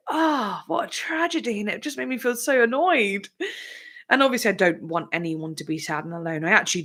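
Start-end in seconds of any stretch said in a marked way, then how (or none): 0.1-1.6 mock tragic. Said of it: "And I was like".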